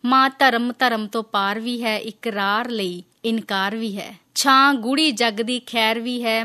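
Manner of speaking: slow, measured verse reading; poem recitation. Acted. Host reads listener's poem about mothers on air, measured recitation. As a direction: recite slowly, line by line.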